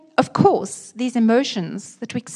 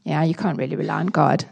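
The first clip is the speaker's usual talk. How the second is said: mild cynical shrug; 3 semitones lower, faster than usual. Retold or imitated. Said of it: "And cynicism".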